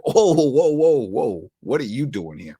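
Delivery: mock startled reaction. Acts out people startled by accent.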